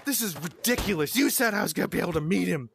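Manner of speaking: quick, indignant mock rant; bitching. Ex-wife complaining back at the hotel, bitching. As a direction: imitate a griping ex, words rushing out. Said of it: "she didn't wanna bitch at me".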